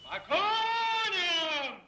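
slow drawn-out order to mount; commanding call. Acted. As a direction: call the troops to horse. (протяжная команда)

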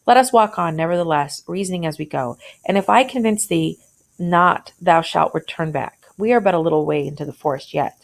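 reading a classic tale to the class, lightly voicing the speakers; story reading aloud. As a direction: read it out like a teacher sharing a story.

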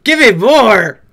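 drawn-out loud mock demand; mock eager begging. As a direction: drag out each word like a craving fan. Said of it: "I'll be like".

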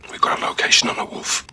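whisper. Acted. Covert briefing, unvoiced.

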